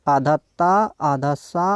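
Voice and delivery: letter by letter, slow dictation; measured pieces with gaps; spelled out slowly. Shown as a demonstration. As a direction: dictate each piece as you write it. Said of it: "ये कैसे लिखते हैं देखिए".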